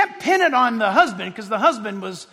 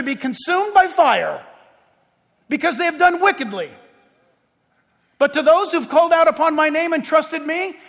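raised, higher preaching voice; forceful preaching; 6 semitones higher, 5 dB louder than usual. Acted. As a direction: press it on the congregation.

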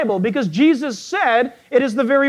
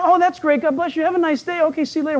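polite reply; 4 semitones higher, faster than usual. Retold or imitated. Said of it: "he answers the lady".

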